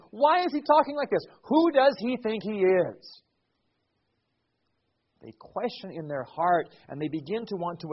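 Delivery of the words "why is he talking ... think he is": higher, louder, quick demand; indignant scribes. Acted. Scribes questioning Jesus's authority, fast and indignant. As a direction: fire it off in offended disbelief.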